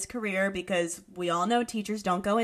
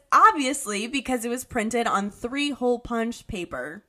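lightly hammed-up British teacher, loud first word; British accent; 5 dB louder than usual. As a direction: put on a touch of British accent. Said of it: "make me do this in an accent".

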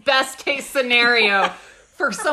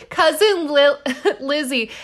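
giggling through the name; cracking up after choking; laughing while reading; 5 semitones higher than usual. Real, not acted. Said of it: "I'm choking".

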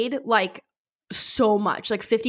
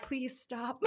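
hungover plea; 3 semitones higher, 16 dB quieter than usual. Retold or imitated. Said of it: "Her hangoverness is like".

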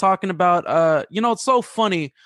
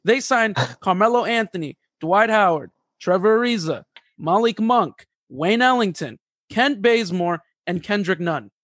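all in one breath. Shown as a demonstration. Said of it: "I'm gonna try to do this in one breath".

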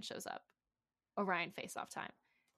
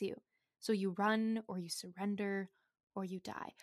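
megalomaniac rant. Acted. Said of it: "literally got the ick reading that".

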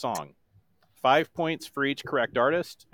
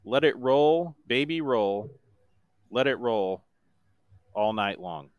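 monotone voice. Shown as a demonstration. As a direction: speak the song, don't sing it. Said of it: "in my best monotone voice".

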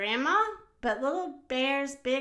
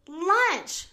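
higher, louder, pleased exclamation; smiling; 7 semitones higher, 5 dB louder than usual. A narrator's reading. Grandma celebrates Little Bear's find, smiling cheer. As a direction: announce it with a pleased smile. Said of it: "smiled Grandma".

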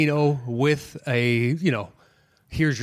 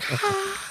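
mock crowd laugh; 4 dB quieter than usual. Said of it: "everybody would be like".

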